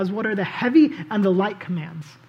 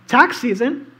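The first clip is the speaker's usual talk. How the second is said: "Tax season?" asked with a rising, louder lift; mock disbelief at the word "Tax"; incredulous question; 2 semitones higher, 5 dB louder, slower than usual. Preacher voicing the leaders' tax question, mock incredulous.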